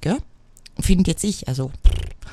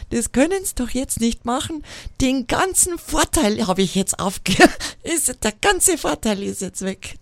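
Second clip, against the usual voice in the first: raised-pitch mock outrage, clearer German; retold bellowed protest; 5 semitones higher than usual. Franconian customer losing his advantage at the till, imitated indignant protest. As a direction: protest it like an aggrieved customer, half-hearted bellow. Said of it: "brüllt drüber".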